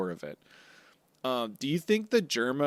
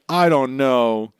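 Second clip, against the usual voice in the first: hammed-up Montour line, big at first; mock villain declaring, loud then settling; 6 dB louder than usual. Montour voiced loudly.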